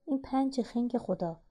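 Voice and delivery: high, loud burst of disbelief, easing off; incredulous shout at a slow learner; exasperated yell. A narrator's reading. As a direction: yell it like an annoyed older brother. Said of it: "نوید داد زد".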